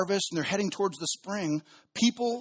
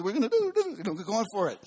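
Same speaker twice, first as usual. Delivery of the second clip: higher, giddy party cheer; party excitement; 4 semitones higher than usual. Pretend. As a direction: whoop it up like hobbits at the pub. Hobbits partying, pints.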